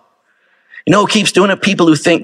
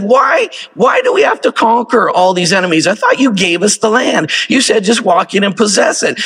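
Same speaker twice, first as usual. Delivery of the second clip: complaining Israelites; 5 semitones higher than usual. Retold or imitated. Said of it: "they said".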